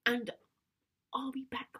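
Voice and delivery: put-on persuasive, mildly pleading teen; coaxing teenage daughter. Teen coaxing feverish Dad to sleep, persuasive. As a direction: gently talk him into resting.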